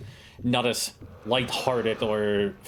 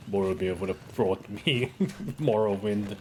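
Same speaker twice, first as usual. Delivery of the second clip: laughing. Retold or imitated. Repeating the meme while laughing.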